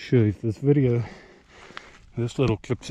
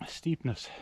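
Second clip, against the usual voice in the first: breathless whisper "Steepness"; 2 semitones higher, 12 dB quieter than usual. Real, not acted. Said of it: "steepness here".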